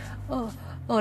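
softly acting close to tears; mock near-tears pity. Friend feeling sorry for the speaker, mock near-tears pity. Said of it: "ทำท่าเหมือนจะร้องไห้แทนเรา".

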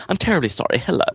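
Hugh Grant impression. Expat playing up Britishness for Americans, bad Hugh Grant impression. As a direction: badly imitate an over-polite English film star. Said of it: "doing a very bad Hugh Grant accent, or, or this kind of".

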